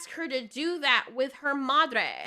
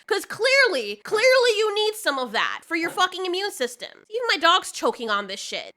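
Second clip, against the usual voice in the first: angry rant; 3 semitones higher, 5 dB louder than usual. Real, not acted. Ranting at the showrunner Russell.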